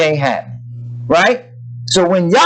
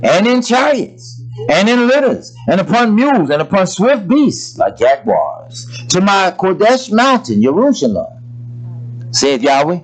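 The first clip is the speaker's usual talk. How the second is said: measured solemn recitation; scripture reading. Real, not acted. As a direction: read the verse with preacher's weight.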